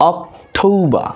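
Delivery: অক্টোবর as "ok... TOU-ba". Shown as a demonstration. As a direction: say অক্টোবর with a gliding "ou" and no final r. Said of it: "ও এর উচ্চারণ".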